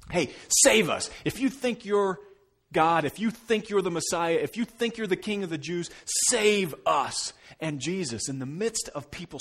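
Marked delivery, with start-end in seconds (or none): 0.1-7.3 higher, louder jeering plea; mock yelling. Criminals on crosses taunting Jesus to save them, loud jeering. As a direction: call up to him like a desperate taunting criminal. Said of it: "The criminals are yelling".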